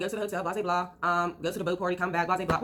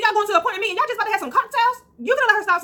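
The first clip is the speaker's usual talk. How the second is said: indignant disbelief; 11 semitones higher, 5 dB louder than usual. Real, not acted. Indignant at the handler.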